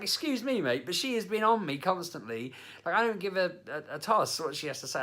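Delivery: indignant retort. Retold or imitated. Retold confronting the bloke.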